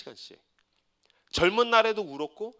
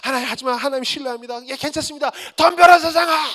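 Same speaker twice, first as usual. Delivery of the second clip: builds from steady trust to a loud high challenge; rising defiant cry; 6 semitones higher, 6 dB louder than usual. Retold or imitated. Pastor bouncing back again, ending in a loud defiant cry. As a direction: swing back into a bold shout of faith. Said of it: "막 울고 울고 울다가".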